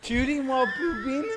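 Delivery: high, laughing disbelief; can't believe the username; incredulous repeat. Real, not acted. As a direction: echo it back, cracking up.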